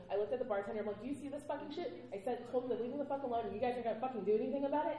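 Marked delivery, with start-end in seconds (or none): 1.0-2.0 angry outburst. Retold or imitated. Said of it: "I was getting really loud".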